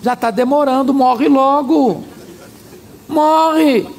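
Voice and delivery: mock impatient wife, drawn-out word endings; lightly hammed-up nagging, slow on each command. Wife telling sick husband to die, impatient.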